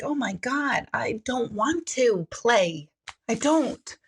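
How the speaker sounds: slow, drawn-out mock dread; weary, put-on reluctance; reluctant parent. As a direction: drag it out like a worn-down mom. Reluctant parent answering begging child.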